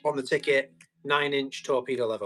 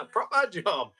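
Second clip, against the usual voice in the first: slight Irish twang; 3 semitones higher, slower than usual. Retold or imitated. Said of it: "Slight Irish twang".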